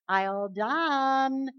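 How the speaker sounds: put-on slow, sweetly drawn-out little girl call; gently imitating a toddler in her crib; lightly voiced little girl. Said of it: "she'll say it very sweetly and gently at first".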